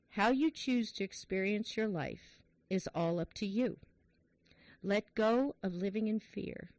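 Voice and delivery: measured, heartfelt passage reading; reading aloud. Real, not acted. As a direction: read it slowly with pauses between phrases. Reads a book passage aloud.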